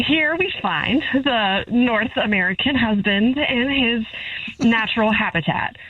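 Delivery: lightly voiced wildlife narrator, measured pace; David Attenborough. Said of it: "Channel my David Attenborough".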